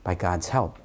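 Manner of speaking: low, hushed self-encouragement; quiet inner resolve. Acted. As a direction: think it aloud softly, tentatively. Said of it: "something inside of you says".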